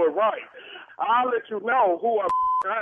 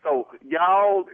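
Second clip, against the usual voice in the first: ordinary talk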